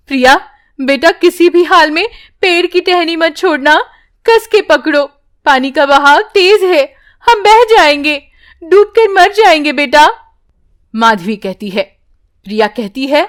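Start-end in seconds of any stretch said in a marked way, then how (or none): 0.1-10.1 put-on a mother begging her child to hold tight; urgent mother. Mother urges daughter. (ज़ोर देती, घबराई माँ)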